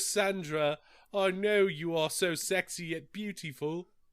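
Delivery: put-on awful, very slow, drawn-out British accent. Mocking an actor's scene with Sandra before the Dracula reveal, imitating a terrible British accent. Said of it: "his fucked up British accent".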